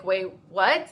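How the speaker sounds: puzzled, questioning tone rising at the end; confused. Retold or imitated. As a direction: ask it as a baffled double-take. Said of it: "we're, like, all confused".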